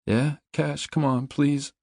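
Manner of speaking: high, urgent begging; pleading. A narrator's reading. Trapped man answers Cash from inside, pleading.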